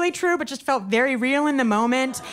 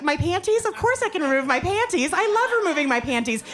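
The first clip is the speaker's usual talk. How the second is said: overeager doubling down; 5 semitones higher than usual. Retold or imitated. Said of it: "But I doubled down".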